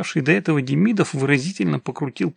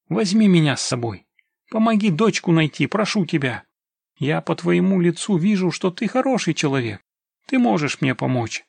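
raised, urgent entreaty; pleading; 4 semitones higher than usual. Acted. Father begs the scout to find his daughter, pleading. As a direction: beg for help.

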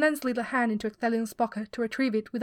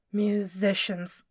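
dark repeat; 2 semitones lower, much slower than usual. Acted. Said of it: "Turgon said again, darkly".

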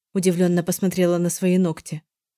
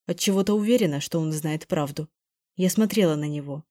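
usual speaking voice

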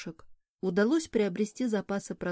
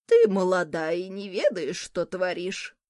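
angry grumble; 4 dB louder than usual. Acted. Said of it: "сердито заворчала старуха".

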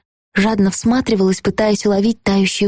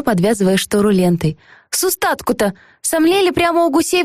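thin ringing folksy maid, higher; high chirpy voice; 5 semitones higher than usual. Acted. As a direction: chatter it like a cheery bird. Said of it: "тоненьким, звонким голоском".

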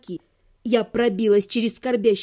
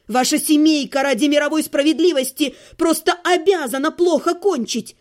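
furious refusal; 4 dB louder than usual. Acted. Furious refusal, accusing family.

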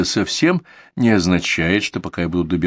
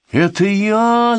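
high, slow excited squeak; 12 semitones higher, 4 dB louder, much slower than usual. A narrator's reading. Roo squeaks out to the group, high and excited. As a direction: squeak it out like a tiny excited kid. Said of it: "запищал Крошка Ру".

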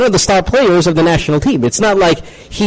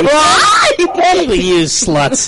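mock shout; 11 semitones higher, slower than usual. Host teasing the squealing co-hosts.

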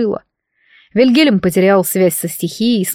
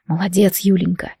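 hoarse and tender. Acted. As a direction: rasp them gently, spent and caring. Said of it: "прохрипел он". (хриплый нежный шёпот раненого)

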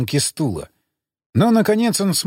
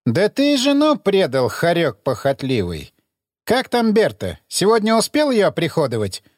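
taunting interrogator; 3 semitones higher than usual. Acted. Emissary taunts.

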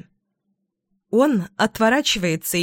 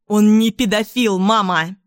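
voice-cracking shout; 4 dB louder than usual. Acted. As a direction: shout louder until the voice breaks. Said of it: "Срываю голос".

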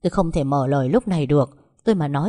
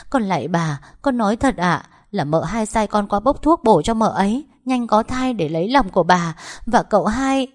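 raised, urgent pleading; desperate confession; 4 semitones higher, 4 dB louder than usual. Acted. Servant kowtowing to the matriarch, desperate confession. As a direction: blurt out the truth, begging to be believed.

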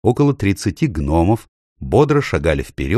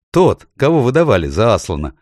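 laughing; 5 semitones higher, 5 dB louder than usual. A narrator's reading. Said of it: "рассмеялась Джил".

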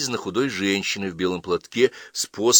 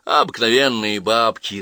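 louder, slow spiteful answer; 3 semitones higher, 6 dB louder than usual. Acted. Girl answers about the old women, spiteful. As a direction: lean irritably on the words. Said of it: "зло отвечала Ася".

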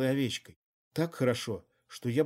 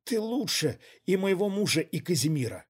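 higher, breathless exclaim; short cry; 6 semitones higher than usual. A narrator's reading. Woman crying out to her lover. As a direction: cry it out suddenly. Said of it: "коротко вскрикнула".

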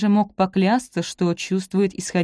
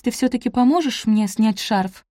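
plain reading voice

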